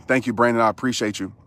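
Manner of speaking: winded, short on air; out of breath. Real, not acted. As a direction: talk while catching your breath. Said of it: "catching my breath".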